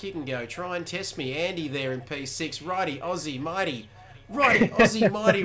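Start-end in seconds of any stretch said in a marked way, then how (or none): 4.3-5.4 high, loud mock New Zealand accent. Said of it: "Why did I say that in a New Zealand accent?".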